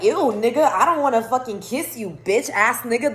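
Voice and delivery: sassy cat comeback; insulting cat. Retold or imitated. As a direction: voice a disgusted cat telling someone off. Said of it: "The cat's straight insulting him".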